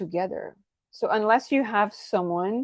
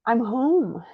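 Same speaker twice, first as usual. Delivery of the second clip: gasp, then a long high "oh" easing into "I'm home"; relieved homecoming; 5 semitones higher, much slower than usual. Acted. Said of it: "you look at the person's like".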